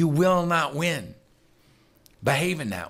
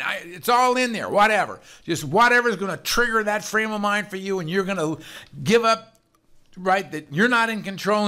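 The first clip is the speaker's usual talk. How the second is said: mentor's voice; 5 semitones higher than usual. Retold or imitated. Sponsor's voice, higher and louder.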